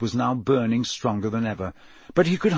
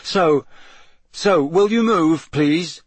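lightly voiced Harry, higher and louder; hesitant polite request; 5 semitones higher, 6 dB louder, slower than usual. A narrator's reading. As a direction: ask the sphinx hopefully to step aside. Harry asks the sphinx to move.

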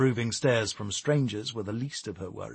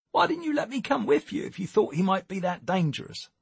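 high-pitched, worried questioning; concerned Tommy; 10 semitones higher than usual. Acted. Tommy asking Nicole why she went alone, concerned. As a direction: question urgently in a raised character voice.

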